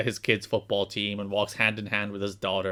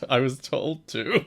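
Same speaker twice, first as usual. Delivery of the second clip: slow, mildly defeated quote; 2 semitones higher than usual. Retold or imitated. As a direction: imitate his beaten admission slowly. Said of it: "The defeat in Alex's voice".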